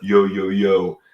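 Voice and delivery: quick put-on Brooklyn patter; fake Brooklyn accent. Chatting up a supermodel at a resort, fake Brooklyn accent. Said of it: "talking to her in a fake Brooklyn accent".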